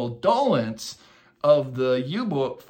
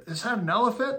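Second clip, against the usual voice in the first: retold wide-eyed disbelief; surprised question; 8 semitones higher, faster than usual. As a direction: pitch jumps high in amazement. Pilots spot a strange animal.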